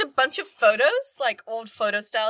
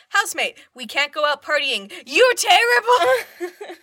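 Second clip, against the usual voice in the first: high, loud whiny complaint, dragging out the end; mock whiny wail; 7 semitones higher, 7 dB louder, slower than usual. Housemates moan at Bill Nye, whiny loud wail. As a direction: whine it, stretching the last word. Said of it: "Pretty much like".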